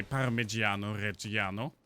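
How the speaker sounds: bad Italian accent; hammed-up Italian accent. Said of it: "my Italian accent is terrible".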